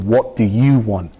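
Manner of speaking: retold question, slowed for weight and force; real force. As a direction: press the question slowly and seriously. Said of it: "he said it with a real force".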